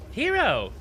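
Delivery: high-pitched little mimicked cry; mimicking another's voice. Tumbleweed nods and parrots the hero's voice, high mimicry. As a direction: pipe it up high, as a mimic would. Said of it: "in your voice".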